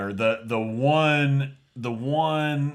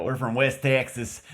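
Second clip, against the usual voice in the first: put-on West Texas accent.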